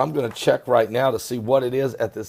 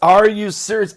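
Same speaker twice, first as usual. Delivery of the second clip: louder, punching the word are; outraged repeat; 7 semitones higher, 6 dB louder than usual. Real, not acted. Host loudly repeating his disbelief to viewers, outraged. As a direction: say it out loud now, fully outraged.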